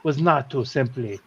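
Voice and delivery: lightly voiced theatrical monarch; Rat King. King apologizing to children for a trick, formal character voice. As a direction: explain yourself with formal flourish. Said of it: "I forgot my Rat King voice".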